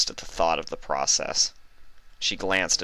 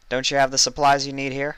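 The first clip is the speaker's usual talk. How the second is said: higher, louder puzzled unicorn voice; puzzled Vinyl; 8 semitones higher, 5 dB louder, faster than usual. A narrator's reading. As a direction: ask in confusion.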